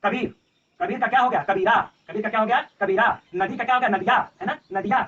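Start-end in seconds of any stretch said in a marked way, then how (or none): 1.4-1.8 कबीरा with a long final aa; verse form कबीरा, open vowel at the end; poetic lengthened ending. Shown as a demonstration. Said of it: "या की मात्रा लगा दिए". 3.9-4.2 नदिया ending in an added long yaa; poetic lengthened ending. Shown as a demonstration. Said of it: "या की मात्रा लगा दिए".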